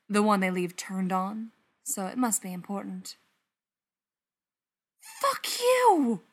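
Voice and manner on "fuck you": high, loud, furious outburst; pitched-up angry retort; angry hiss back. A narrator's reading. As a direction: spit it out at him, high and loud. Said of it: "Gerard hisses back".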